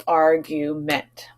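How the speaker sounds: argument said slowly, AR-gu-ment in three beats; syllables shown. Shown as a demonstration. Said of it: "three syllables".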